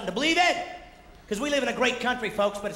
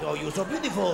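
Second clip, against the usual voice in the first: mock French talk; 2 semitones lower than usual. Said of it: "That's how they talk in France".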